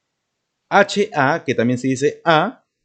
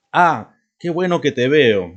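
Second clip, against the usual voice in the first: bright, louder delighted "Ah"; happy surprise; 5 dB louder than usual. Shown as a demonstration. Teacher to class, demonstrating surprise with a louder glad "Ah". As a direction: greet a friend you are glad to see. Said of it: "Una sorpresa".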